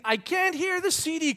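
put-on high-pitched whining boy; mock a small boy's repeated holler; imitated child yelling. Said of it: "all he's doing is screaming this".

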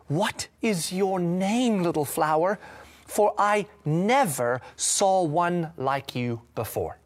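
a slow, gently wondering question; soft question. Acted. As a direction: speak softly to the little flower. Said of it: "and cried out softly".

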